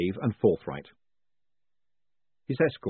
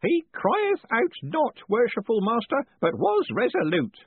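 raised voice; 13 semitones higher, 4 dB louder, slower than usual. A narrator's reading. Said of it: "raised his voice to add".

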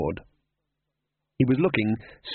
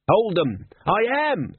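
panicked shouting; 8 semitones higher, slower than usual. Acted. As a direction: yell over the runaway horses. Panicked shouting on runaway cart.

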